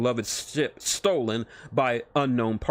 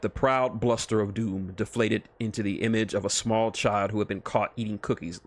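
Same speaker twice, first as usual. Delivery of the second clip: ordinary delivery, nothing marked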